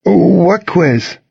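high-pitched worried question; nervous. A narrator's reading. Jimmy hears of a forgotten quiz, nervously. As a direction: pitch it up with a touch of alarm. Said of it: "Jimmy asked nervously".

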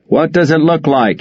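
yelled back. Acted. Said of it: "he yelled back".

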